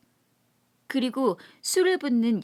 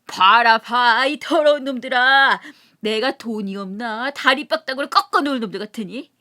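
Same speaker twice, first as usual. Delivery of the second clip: even angrier; 8 dB louder than usual. Acted. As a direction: rage at the dirty lot. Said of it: "더욱 성을 내며". (더욱 성내며 큰 소리로 호통)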